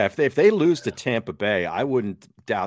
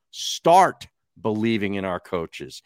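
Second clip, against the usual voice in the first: slow, incredulous repeat of the quote; mocking disbelief; 4 dB louder, slower than usual. Real, not acted. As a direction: drag it out as if it is absurd.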